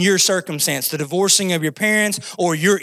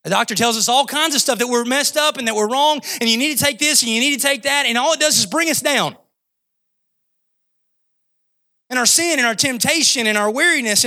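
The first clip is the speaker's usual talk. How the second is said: higher-pitched, driving sermon delivery; impassioned preaching; 6 semitones higher than usual. Real, not acted. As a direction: preach it with mounting urgency. Preaches with rising force.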